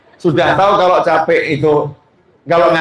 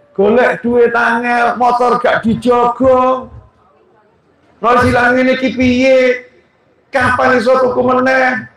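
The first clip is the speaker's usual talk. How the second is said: mock-scold a careless husband; nagging wife; 4 semitones higher than usual. Wife berating her husband over the lost motorbike, mock scolding.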